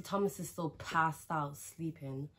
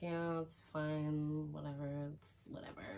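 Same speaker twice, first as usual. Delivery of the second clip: dismissive; 6 dB quieter than usual. Retold or imitated. Brushing off the festival guys, bored and fading. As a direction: let it trail off, couldn't care less. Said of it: "I was just like".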